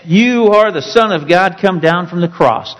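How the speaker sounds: high sneering challenge on "you"; scornful dare from the passers-by; mocking taunt. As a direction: throw "you are the Son of God" up as a jeer. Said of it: "that word that so many people throw out".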